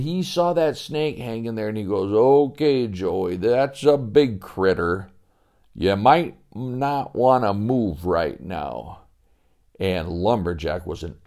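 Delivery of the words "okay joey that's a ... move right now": slow, steady, reassuring; an expert keeping the boy still; calm warning. Acted.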